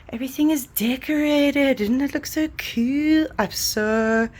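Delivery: bright, loud and high with delight; excited. Real, not acted. Showing the decorated home, excited. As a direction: show off the room, thrilled.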